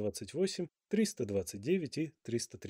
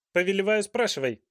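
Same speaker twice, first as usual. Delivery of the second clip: hasty king; 6 semitones higher, 6 dB louder than usual. A narrator's reading. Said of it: "поспешно сказал король".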